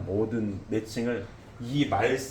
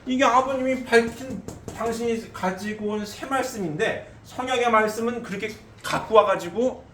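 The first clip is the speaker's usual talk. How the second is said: fiery preaching; 8 semitones higher, 5 dB louder than usual. Acted. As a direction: drive it home from the pulpit. Preacher arguing at full force.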